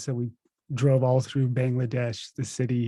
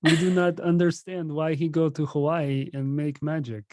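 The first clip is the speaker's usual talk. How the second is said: imitating puzzled parents, higher pitched; baffled parents voice; 5 semitones higher than usual. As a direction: playfully mimic confused parents.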